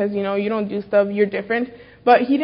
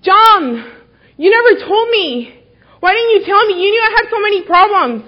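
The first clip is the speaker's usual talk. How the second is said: much higher and louder, desperate and betrayed; a heartbroken friend begging why; anguished pleading; 7 semitones higher, 4 dB louder than usual. Acted. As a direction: cry out to the best friend who never told you. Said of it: "He's like".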